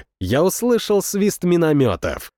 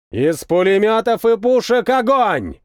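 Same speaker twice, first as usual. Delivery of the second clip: command; 6 semitones higher than usual. A narrator's reading. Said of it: "скомандовал капитан".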